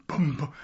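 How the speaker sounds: bass notes. Retold or imitated. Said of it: "basses came in and".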